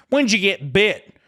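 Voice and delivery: high, slow mock question; drawn-out, high-pitched mimicry of a hospital staffer; imitating hospital worker. Patient mocking the hospital worker's English, slow imitation. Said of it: "Well, that's proper English".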